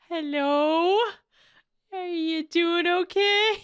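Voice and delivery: slow, wary, careful question; tentative check-in. Acted. Listener acting out approaching an unstable man, tentative. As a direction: check on someone you are a bit afraid of. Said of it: "you're, like, afraid of them".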